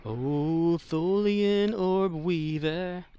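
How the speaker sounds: slow, hammed-up Cockney taunt; lightly put-on Cockney threat to an enemy ship; Cockney accent. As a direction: drawl it out in a mock Cockney accent. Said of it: "Cockney British acting".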